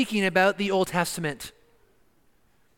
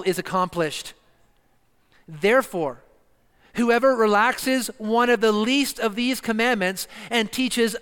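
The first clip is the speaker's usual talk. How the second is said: scripture reading; 3 semitones higher than usual. Acted. Preacher reading Matthew to the congregation, solemn and measured. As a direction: read the words of Jesus with gravity.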